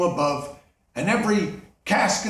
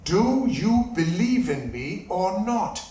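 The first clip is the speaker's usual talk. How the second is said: slow ghostly demand; slower than usual. Acted.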